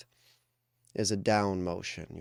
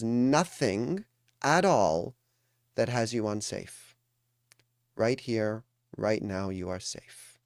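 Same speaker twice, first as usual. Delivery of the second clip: higher, deliberate phrases with pauses between; emphatic reassurance; 3 semitones higher, 4 dB louder than usual. Real, not acted. Coach telling a meditating group they are safe, emphatic reassurance. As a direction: press each reassurance home, word by word.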